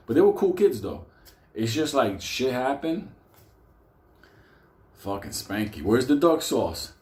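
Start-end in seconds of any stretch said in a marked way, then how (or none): 5.8-6.9 mock demand. Spanky confronting delivery guy.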